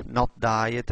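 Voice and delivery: slow, spelled-out dictating pace; slow dictation. Shown as a demonstration. Teacher dictating a search term to the class, slowly. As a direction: say it slowly as if typing each word. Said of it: "I can s-, write diet".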